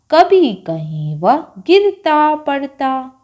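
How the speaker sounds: put-on measured children's poem reading with swooping pitch on the stressed words; poem recitation. Shown as a demonstration. Teacher reading a Hindi poem to second-class children, measured recitation. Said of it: "पहले हम कविता को पढ़ते हैं".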